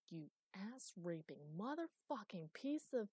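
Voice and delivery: slow growled swearing; guttural cursing. Acted. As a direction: spit slow curses through the strain. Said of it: "swear at it in deep, guttural tones".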